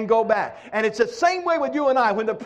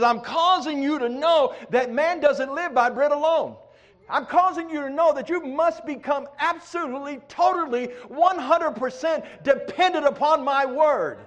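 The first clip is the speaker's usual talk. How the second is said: voice of God; 4 semitones higher, 3 dB louder than usual. Acted. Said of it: "He says".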